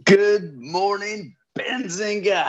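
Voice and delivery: high, slow, drawn-out greeting; signature good morning. Real, not acted. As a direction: stretch the good morning out with energy. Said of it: "I love his good morning".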